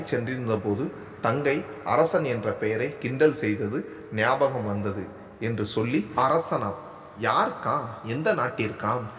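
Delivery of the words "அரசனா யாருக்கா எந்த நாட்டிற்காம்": lightly mocking kid-sister voice; a hint of a teasing younger sibling; imitating younger sister. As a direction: tease the name like the little sister did. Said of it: "தங்கையை போல் சொல்லி காண்பித்து".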